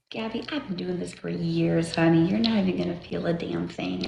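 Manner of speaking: calm her down like a pro; reassuring nurse voice. Retold or imitated.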